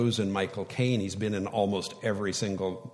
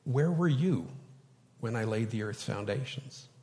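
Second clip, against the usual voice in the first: quiet, gentle God; 6 dB quieter than usual. Shown as a demonstration. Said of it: "but how did God speak them".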